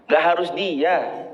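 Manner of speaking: "Nggak harus dia" slow and joined, falling at the end; slow statement "Nggak harus dia", no break after "Nggak"; not-necessarily intonation. Shown as a demonstration.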